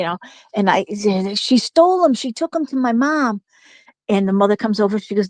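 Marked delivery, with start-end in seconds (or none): 1.3-3.4 put-on tattling kid. Kids ratting on little girl.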